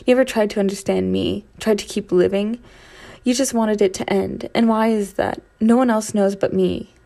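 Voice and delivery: loud, bitter outburst; heated. Acted. Narrator confronting Archie about his past, loud and bitter. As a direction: confront him hard.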